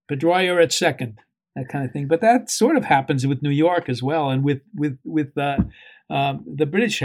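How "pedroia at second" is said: put-on Boston accent. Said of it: "he talks about".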